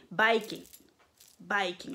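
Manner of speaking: "biking" said like "bikers"; "biking" with the vowel of "bikers"; Japanese pronunciation. Shown as a demonstration. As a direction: say "biking" as "baï-kine", word on its own. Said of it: "ça se prononce à peu près pareil".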